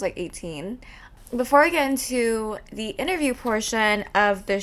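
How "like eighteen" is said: unvoiced whisper of the age; confiding it in a whisper; whispered aside. Real, not acted. Host whispers her age confession to listeners, hushed. Aside about using eye cream young.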